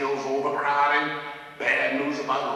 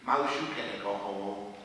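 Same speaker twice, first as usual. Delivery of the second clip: softer, lower voice; gentle persuasion; 7 semitones lower, 6 dB quieter than usual. Retold or imitated. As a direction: talk him out of it, low and soft. Talks struggling student out of leaving.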